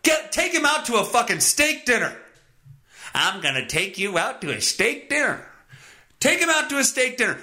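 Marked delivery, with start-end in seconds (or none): 3.1-5.4 voicing the son. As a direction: lightly play the good son. Voicing the son's line.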